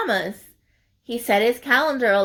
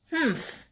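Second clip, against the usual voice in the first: 1 grumpy humph; 4 semitones higher, 6 dB quieter than usual. Acted. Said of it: "he said to himself".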